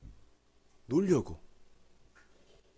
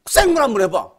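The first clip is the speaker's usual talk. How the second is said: silent retort; 2 semitones lower, 4 dB louder than usual. Retold or imitated. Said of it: "내가 속으로".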